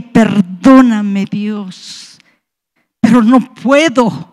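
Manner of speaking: slow, low plea for forgiveness, dropping away; kneeling plea. Retold or imitated. Fallen on her knees begging God's forgiveness, retold slow plea. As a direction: draw it out, fading on the last word. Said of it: "caí de rodillas y le dije".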